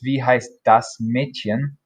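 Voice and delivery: Wie heißt das Mädchen said slowly and clearly; careful German teacher model; slow German model phrase. Shown as a demonstration. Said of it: "What is the girl's name?".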